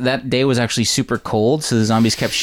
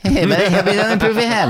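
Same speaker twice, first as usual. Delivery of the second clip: high-pitched cartoon Terrance and Phillip accent; exaggerated, silly Terrance and Phillip accent; 10 semitones higher than usual. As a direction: ham up the Terrance and Phillip accent, much higher. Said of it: "It's the Terrence and Phillip accent".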